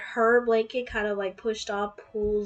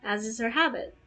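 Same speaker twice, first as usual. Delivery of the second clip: story narration. Acted. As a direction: read it like a romance novel. Reads fanfic aloud.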